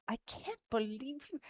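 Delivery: lightly put-on British indignation; favorite British voice. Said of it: "my favorite voice you do".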